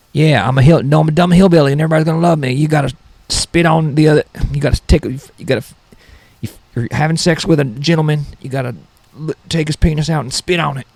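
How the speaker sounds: hint of a hick voice, only slightly put on; hillbilly impression. Comedian mocking a TikTok hillbilly girl, lightly voiced hick. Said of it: "So that's my terrible impression".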